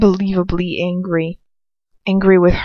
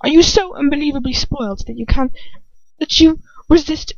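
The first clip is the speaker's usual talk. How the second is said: contemptuous drawl; 5 semitones higher than usual. A narrator's reading. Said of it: "Lucius drawls".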